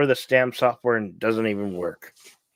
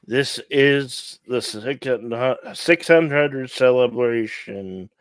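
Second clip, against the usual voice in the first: announcer voice. Acted. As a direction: welcome everyone like a show host. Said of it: "I will be the narrator".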